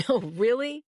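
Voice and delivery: laughing, high disbelief. Acted. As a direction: scoff it out with a laugh. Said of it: "Tommy laughed like it all".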